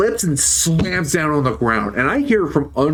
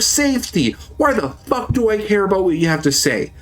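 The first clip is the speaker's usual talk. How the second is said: raised-pitch indignant rant; heated imagined comeback, pitched higher; angry retort; 5 semitones higher than usual. Retold or imitated. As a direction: tell him off, fired up.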